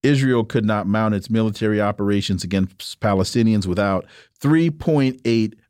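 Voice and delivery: even, formal radio read; measured news-style reading; reading an article aloud. Acted. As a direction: read the quoted passage out evenly on air. Reads from guest's article.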